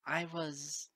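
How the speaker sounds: laughing through the question in disbelief; half-laugh, half-accusation; bitter chuckle. Acted. Moon Dancer asking Lyra how she helped, bitter laugh. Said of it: "I gave a bitter chuckle".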